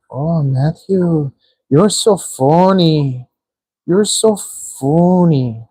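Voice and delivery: slow, drawn-out teasing imitation of a girl; imitating a girl. Streamer retelling how a girl teased him, slowly. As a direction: stretch out the words lazily, lightly mimicking her. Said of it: "It was like".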